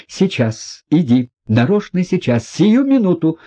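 impatient, in a fit of agitation; agitated cry. A narrator's reading. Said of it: "вскричала она в припадке ... волнения и нетерпения". (в припадке волнения и нетерпения)

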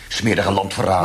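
sneering accusation; loud, scornful name-calling; contemptuous insult. Acted. Interrogator insults the prisoner.

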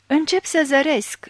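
sudden crazed roar, held partly in check; wild roar. A narrator's reading. Blind man tells the priest he begins to see, wild roar. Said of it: "răgni el deodată ca un nebun".

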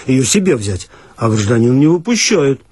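usual speaking voice

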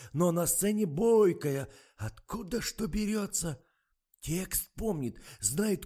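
высокий, громкий голос жалующегося старика; сетует, как старый охранник; ворчливый дед. A narrator's reading. (громкое стариковское ворчание)

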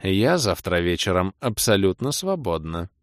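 slow seductive purr; femme fatale purr. Acted. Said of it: "промурлыкала подступившая ко мне паладинша".

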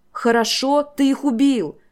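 put-on girl screams at the king through tears; shouting. A narrator's reading. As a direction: scream it in disbelief. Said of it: "закричала Энира".

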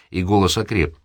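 usual speaking voice

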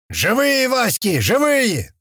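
high, exultant cry; elated shout. A narrator's reading. Колючий finding his friends alive, shouting. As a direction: cry out the good news. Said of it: "кричит Колючий".

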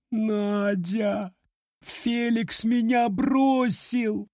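high, slow tearful wail; moaning. A narrator's reading. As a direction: moan it out, dragging the words. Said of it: "простонала".

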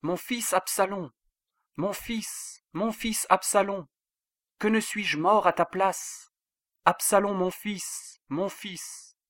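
restrained storyteller's grief, pitched high; grieving lament. A narrator's reading. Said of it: "monta dans la chambre au-dessus de la porte et pleura".

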